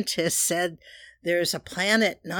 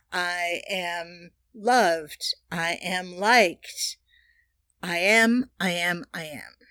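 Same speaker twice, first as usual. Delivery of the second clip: slow, deliberate affirmations, each one landing; slower than usual. Shown as a demonstration. Leading listeners through affirmations, slow and deliberate.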